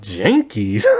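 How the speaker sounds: a confused question, falling; puzzled echo. Retold or imitated. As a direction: repeat the word back, baffled. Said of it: "Johnny's kinda like".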